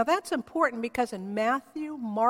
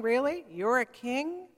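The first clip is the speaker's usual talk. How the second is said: skeptical, teasing rise on king; a hint of a scoffing governor; mock taunting. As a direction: needle him lightly, doubting he's a king. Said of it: "kinda like taunting".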